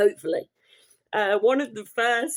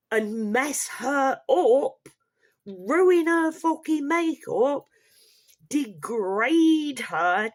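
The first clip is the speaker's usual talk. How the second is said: slow, higher, biting words; irate rant; 4 semitones higher, slower than usual. Real, not acted. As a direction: hammer each outraged phrase slowly. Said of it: "sorry for getting irate".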